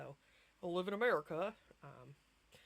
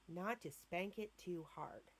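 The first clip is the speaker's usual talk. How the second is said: quoting the doctor; slower than usual. Retold or imitated. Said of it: "and I quote from the doctor's mouth".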